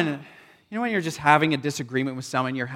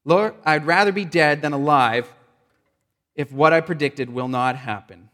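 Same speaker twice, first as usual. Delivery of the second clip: angry; 5 dB louder than usual. Acted. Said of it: "he became very angry".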